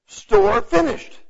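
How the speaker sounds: slow, high and loud clipped phrase; deaf sign style. Shown as a demonstration. Preacher showing how deaf people sign, slow and high. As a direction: say it like a picture, two punchy words. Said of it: "You say".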